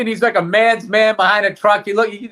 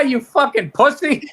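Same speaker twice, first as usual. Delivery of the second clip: laughing mock insult; 4 semitones higher than usual. Mocking friend over puppy video.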